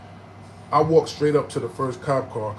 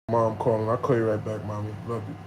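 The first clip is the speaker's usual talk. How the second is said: low, softening aside to a parent; real tender aside; 5 semitones lower than usual. Real, not acted. Son putting off his mom's call, tender and low. Breaks off to address his mom.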